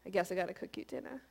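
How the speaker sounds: mock-reluctant sigh of duty; imitating a dutiful, unwilling cook; grudging. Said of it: "it's nice to do a response versus a".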